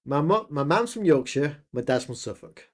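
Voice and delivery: "mum's" said as northern "mam's"; regional English accent. Shown as a demonstration. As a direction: say it in a Yorkshire and Suffolk accent. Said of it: "being people more accurate, pronounce it as".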